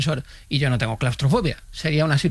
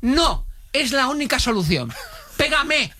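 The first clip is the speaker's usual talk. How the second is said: mock desperate insistence; 8 semitones higher, slower than usual. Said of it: "Y me dice".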